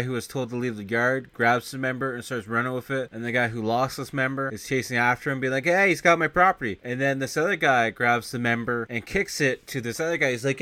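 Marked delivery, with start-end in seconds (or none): 5.6-6.8 loud, higher mock alarm; retold calling out. Retelling a man chasing his stolen member, mock-alarmed shout. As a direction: act out yelling after a thief. Victim chasing thief, acted out.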